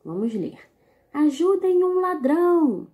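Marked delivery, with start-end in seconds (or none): 1.1-2.9 loud, high call for help; shouted cry for help. Shown as a demonstration. Teacher reading a comic strip to pupils, calling loud for help. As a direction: cry out for help like a robbery victim. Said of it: "Perceberam a entonação da leitura?".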